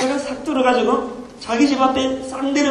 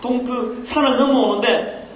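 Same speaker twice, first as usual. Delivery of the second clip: raised pitch, breathlessly recounting a miracle; excited testimony; 3 semitones higher than usual. Acted. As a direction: act a thrilled young ant telling mom. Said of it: "막 흥분하면서 들려주는데". (흥분해서 기적을 간증하는 새끼 개미 흉내)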